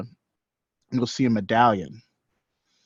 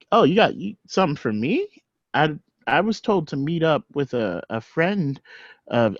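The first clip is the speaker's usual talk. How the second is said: put-on high, unsure young voice; stammering, a bit higher; eager and unsure, pitched up; nervous higher voice; 4 semitones higher than usual.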